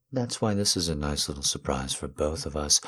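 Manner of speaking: soft conspiratorial whisper; hushed teasing whisper. Acted. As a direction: whisper the surprise close. Whispered surprise reveal.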